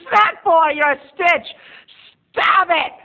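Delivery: high, loud fangirl squeal; mock giddy squeal. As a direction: squeal like a flattered fan. Mock fan squealing at herself.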